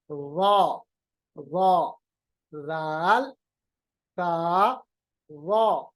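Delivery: وا said thick and full, the tongue tip on the upper teeth; letter drill. Shown as a demonstration. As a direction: drill وا, رال and تا one by one, وا made heavy. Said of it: "وا کو موٹا کریں گے". (حروف کی مشق، وا موٹی آواز میں)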